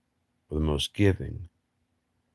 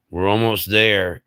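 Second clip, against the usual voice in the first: leader's urging call; 4 semitones higher, 7 dB louder than usual. Retold or imitated.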